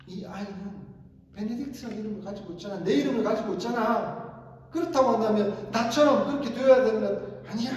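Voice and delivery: 점점 커지고 높아지는 언성; 아내에게 맞서 끝으로 갈수록 크게 소리치기; 소리치는 남편. Retold or imitated. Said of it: "라고 또 소리를 칩니다". (점점 격해지며 고함치듯)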